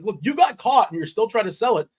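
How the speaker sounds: high-pitched, exasperated retold rant; mock yelling. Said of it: "yelling at him".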